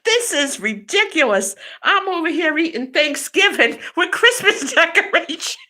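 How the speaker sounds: mock grumbling father; papa voice. Father complaining about Christmas decorations at Thanksgiving, in a papa voice. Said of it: "I do the papa voice".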